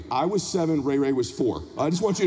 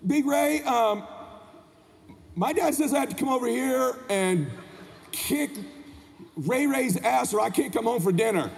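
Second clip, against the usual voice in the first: put-on timid little boy; 3 semitones higher than usual. Boy delivers dad's challenge to Big Ray, timid. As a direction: stall with ums and pauses, reluctant.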